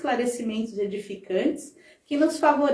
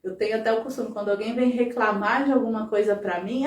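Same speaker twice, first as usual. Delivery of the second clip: ordinary delivery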